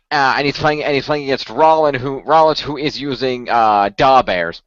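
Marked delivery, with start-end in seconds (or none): 3.5-4.6 Chicago Da Bears. Retold or imitated. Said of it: "he said it that way too".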